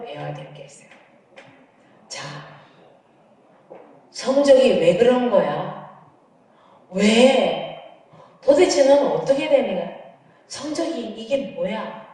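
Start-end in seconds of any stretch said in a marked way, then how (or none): 4.1-12.1 scolding demo. Shown as a demonstration. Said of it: "라고 말하면 부정적이고".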